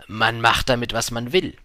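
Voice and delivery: put-on merchant's reply. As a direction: answer firmly in the merchant's voice. Merchant answering the little prince.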